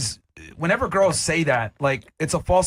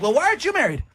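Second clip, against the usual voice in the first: mocking woman's voice; 11 semitones higher, faster than usual. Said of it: "be like".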